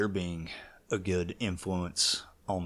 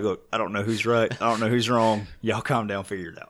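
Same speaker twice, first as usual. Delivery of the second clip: exasperated plea; 3 semitones higher, 5 dB louder than usual. Retold or imitated. Dad telling family calm down.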